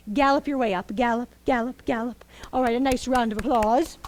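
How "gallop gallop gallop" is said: whisper. Acted. Cheering child to the stage.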